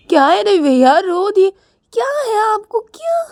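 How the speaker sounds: a sister demanding an answer, lightly voiced; a hint of worried sister. Rani asks crying Ravi why. (हल्की सी बहन की आवाज़ में सवाल)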